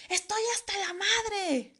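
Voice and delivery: high, slow exasperated yell; retold fed-up outburst. Daughter snapping at bickering parents, acted fed-up yell. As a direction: blow up at them, drawing it out. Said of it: "les dije".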